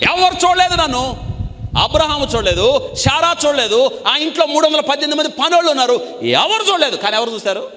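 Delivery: high, loud, building proclamation; full-force preacher's cry; fiery preaching. Acted. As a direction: hammer each "nobody saw" home. Preaching burst, Hagar unseen.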